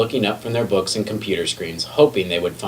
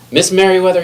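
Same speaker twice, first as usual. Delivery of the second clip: much higher, louder call; 11 semitones higher, 7 dB louder, faster than usual. A narrator's reading. McBee hurrying in to report, high urgent call. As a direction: call her name urgently as you hurry in. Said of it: "he called as he walked in".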